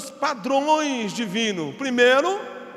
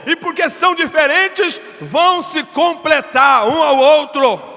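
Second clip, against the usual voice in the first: loud, drawn-out preacher's cry; preaching at full force; 4 semitones higher, 12 dB louder, slower than usual. Acted. Pastor to the church, booming slow preaching. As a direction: thunder it to the congregation.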